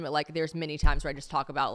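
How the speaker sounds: usual speaking voice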